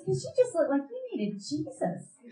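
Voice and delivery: high mimicked answer with a laugh; sweet earnest girl. Girl explains prayers to cashier, high mimicry.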